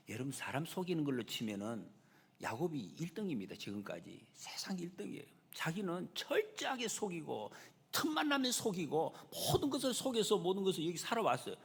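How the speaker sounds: ordinary delivery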